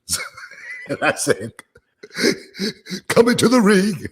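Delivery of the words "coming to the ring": loud, high, drawn-out ring announcer intro; Howard Finkel impression. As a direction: boom it out like a big arena announcer. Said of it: "my Howard Finkel impersonation".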